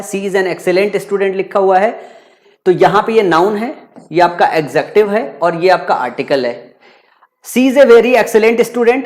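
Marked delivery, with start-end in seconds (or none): 0.0-1.3 "She is a student" read out word by word, very slowly; slow example reading. Shown as a demonstration. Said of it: "इसमें देखो an excellent student लिखा हुआ है". 7.4-9.0 "She is a student" read out word by word, very slowly; slow example reading. Shown as a demonstration. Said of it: "अब यहां पे देखो".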